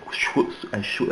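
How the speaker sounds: soft whooshing "shw"; short mouth-made whoosh, twice; imitated swishing noise. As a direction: imitate a quick head swivel with a swish. Imitates heads whipping round.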